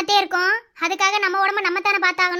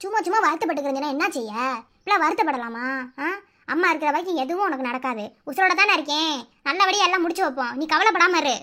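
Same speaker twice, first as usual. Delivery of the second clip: low, softened comforting voice; motherly reassurance; 8 semitones lower than usual. Acted. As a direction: gently soothe a worried child. Mother comforts her worried child. (ஆறுதலாக, தணிந்த குரலில்)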